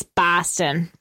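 slow Boston accent, low and drawn out on Boston. Shown as a demonstration. Correcting her co-host, a slow Boston accent. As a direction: say Boston the way a local does, slowly. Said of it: "It's really Boston if you're from Boston".

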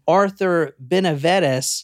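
usual speaking voice

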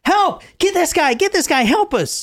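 high, panicked calls for help; imitating scared cries. Linda begging for help, high and panicked. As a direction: squeal for help in mock terror. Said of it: "She's scared out of her mind".

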